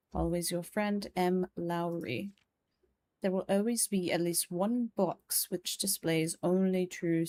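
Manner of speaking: measured, formal reading of a letter. Acted. Gentleman writes to friend Herbert about a parlor game, formal letter reading. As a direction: read an old letter aloud with poise. Reads an old letter aloud.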